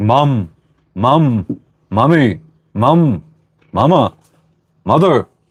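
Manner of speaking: very slow, swooping, each word drawn out. Imitating a kid calling for mom over and over: Stewie from Family Guy voice. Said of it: "like Stewie on Family Guy, where he's like".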